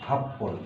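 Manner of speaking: হাফপন said as hap-pon, doubled p; হাফপন with a held double p; say happon. Shown as a demonstration. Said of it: "এটা হবে". (হাফপন, দ্বিগুণ প)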